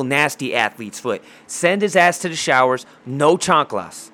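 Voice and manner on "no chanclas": slow emphatic punchline. Retold or imitated. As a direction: drag out No chanclas, leaning on No. Repeats the punchline, drawn out.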